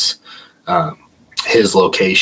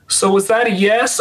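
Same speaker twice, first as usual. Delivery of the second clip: high, tentative voice; tentative question; 13 semitones higher than usual. Retold or imitated. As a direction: check cautiously with the ghost. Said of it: "he's like".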